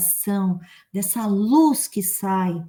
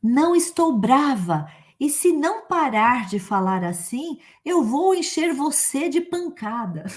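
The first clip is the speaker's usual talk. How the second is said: denying anger; 5 semitones higher than usual. Acted. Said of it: "Eu já disse".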